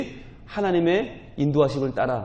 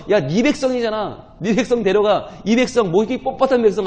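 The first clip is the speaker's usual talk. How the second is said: mildly angry God; 6 semitones higher, 5 dB louder than usual. Acted. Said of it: "처음에는 화가 나셔서".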